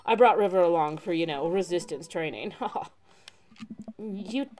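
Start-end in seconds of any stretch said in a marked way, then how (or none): 0.0-2.5 chill surfer, happy reunion; surfer dude voice. Acted. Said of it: "the surfer dude voice".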